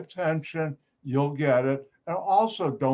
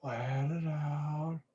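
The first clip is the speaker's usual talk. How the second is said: long exhale; 8 dB quieter, slower than usual. Shown as a demonstration. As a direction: breathe the words out slowly and softly. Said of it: "take a deep breath".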